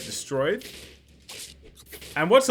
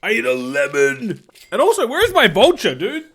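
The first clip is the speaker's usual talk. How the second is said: calm turning angry; 6 semitones higher, 7 dB louder than usual. Real, not acted. Frustration at bad rolls.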